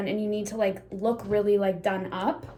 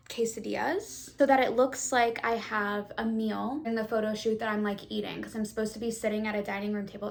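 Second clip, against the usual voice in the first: lisp. Real, not acted. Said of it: "I have a lisp 'cause I have my teeth whitening strips in".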